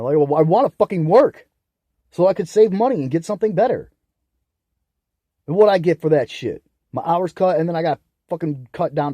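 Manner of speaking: real angry yelling; furious shouting. Real, not acted. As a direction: scream the injustice out. Shouting about job cuts.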